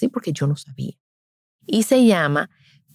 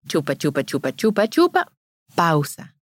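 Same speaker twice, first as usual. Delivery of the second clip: rhythmic sucking demo; 3 semitones lower than usual. Shown as a demonstration. Showing mothers the nursing rhythm, even chant. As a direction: chant chupa, chupa in an even beat, then a dropped pausa. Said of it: "Cuando un bebé está en el seno".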